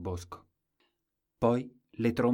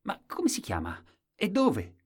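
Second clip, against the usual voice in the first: courtiers asking; 10 semitones higher, 4 dB louder than usual. A narrator's reading. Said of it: "e domandarono".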